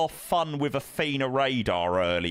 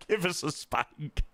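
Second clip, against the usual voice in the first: laughing tease; 4 semitones higher, slower than usual. Pretend. Repeats tease while laughing.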